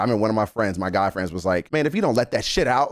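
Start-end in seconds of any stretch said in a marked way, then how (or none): 1.7-2.9 higher-pitched, pushy encouragement from a friend; aggressive positiveness. Retold or imitated. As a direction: imitate a friend insisting, tough but supportive. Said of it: "It's that aggressive positiveness that I like".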